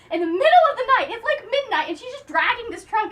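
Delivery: laughing through the words; giggly retelling. Real, not acted. Amused retelling.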